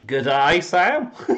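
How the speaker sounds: Australian "Good day" rising high and loud; hammed-up Aussie greeting, pitch leaping up; playful put-on Australian "Good day, Sam"; mock Australian accent. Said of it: "I practiced the accent before we came on".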